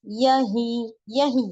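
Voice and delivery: यही slowly, final vowel held in the nose; noon ghunna ending. Shown as a demonstration. Urdu teacher reading examples for learners, nasal ending. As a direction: stretch the end of यही nasally. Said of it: "as it is आ रहा है".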